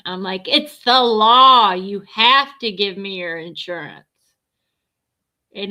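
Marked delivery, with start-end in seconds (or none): 0.5-4.1 Karen mode. Retold or imitated. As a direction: lay down the law like an entitled Karen. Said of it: "Karen mode".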